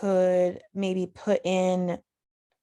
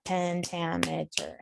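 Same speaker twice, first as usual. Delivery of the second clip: "Pentameter" said slowly, syllable by syllable, softer; broken into syllables; 6 dB quieter, slower than usual. Shown as a demonstration. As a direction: break "Pentameter" into slow, separate syllables. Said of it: "breaking down a word".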